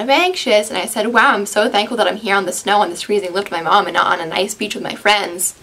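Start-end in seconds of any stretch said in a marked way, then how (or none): 1.1-5.5 snarky sarcastic tone; dripping sarcasm, fake gratitude. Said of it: "very snarky and sarcastic".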